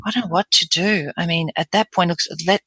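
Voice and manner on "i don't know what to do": breathy, helpless admission; helpless, with breath in the tone. Shown as a demonstration. Coach playing an upset patient, breathy. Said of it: "a breathy voice".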